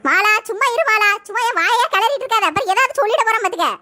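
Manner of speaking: loud, fast angry retort; angry warning. Acted. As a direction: warn her off, fast and loud. Woman snaps back in quarrel. (கோபமாக வேகமாக எச்சரித்து)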